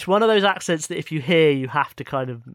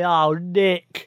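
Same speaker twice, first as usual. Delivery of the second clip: lightly mimicked London soap character, slow and louder; Dot Cotton; 5 dB louder, much slower than usual. EastEnders mother calling out to Nick, lightly mimicked London voice. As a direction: draw it out slowly in a London accent. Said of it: "even June dot cotton dot com".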